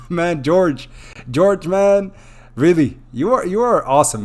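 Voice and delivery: high, loud, delighted praise; excited shout-out. Real, not acted. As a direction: gush loudly at a loyal supporter.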